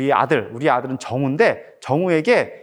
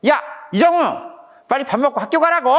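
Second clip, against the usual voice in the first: fast, higher-pitched acted scolding; mock angry dad; 9 semitones higher than usual. Dad re-enacting telling his son to go to school, cross. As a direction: act out a dad getting cross. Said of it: "좀 화가 났겠죠?".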